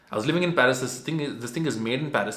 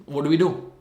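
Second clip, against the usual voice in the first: mock exasperation; 4 semitones higher, 6 dB louder than usual. Retold exasperated question.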